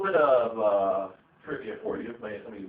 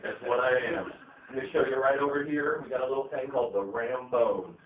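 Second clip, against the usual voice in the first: loud hyped-up sales pitch, getting louder and higher; building, over-the-top salesman hype; sprung-to-life salesman; 4 semitones higher, 7 dB louder than usual. Retold or imitated. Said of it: "that's when I spring to life".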